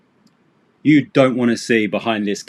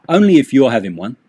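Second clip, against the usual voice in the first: quick, easy, slightly louder reply; casual reply; 5 dB louder, faster than usual. Shown as a demonstration. Guest answers the friend's offer, quick and casual. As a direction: toss it off like a relaxed guest.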